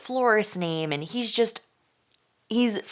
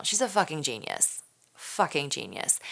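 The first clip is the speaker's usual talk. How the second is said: hushed swear; 2 semitones lower, 6 dB quieter than usual. Real, not acted. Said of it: "can I say fucking".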